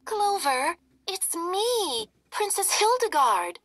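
high squeaky mouse voice; a little mouse pleading to be known; tiny mouse princess. Acted. Mouse Hildy speaks.

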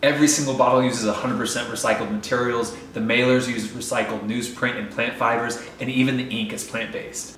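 upbeat, polished ad read; sponsor ad read. Acted. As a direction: sell it like a sponsor spot. Reads a sponsor ad segment.

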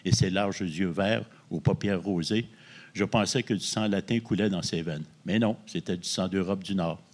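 steady, even novel reading voice; reading aloud. Acted. Author reading his own novel to the host, in a measured reading voice. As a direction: read the passage out like a storyteller.

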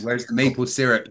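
lightly attempted Canadian accent. Shown as a demonstration. Cohost obliges the chat with a stereotype, mock Canadian accent. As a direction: put on a mild mock-Canadian voice. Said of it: "Now I've got to do a Canadian one".

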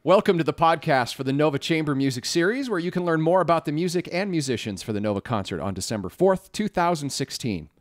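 echoey, tinny mic bleed; recorded voice with room echo and bleed; thin tinny echo. Real, not acted. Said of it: "which creates a thin, tinny sound".

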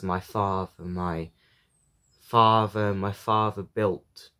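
measured poem recital with pauses; poetry reading. A narrator's reading. Reader sharing a poem about a father, measured recital. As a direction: read the poem line by line, pausing.

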